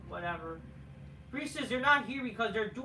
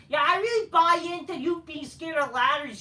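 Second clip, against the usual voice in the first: sarcastic; 4 semitones higher, 6 dB louder than usual. Real, not acted. Sarcastic jab at wrestler.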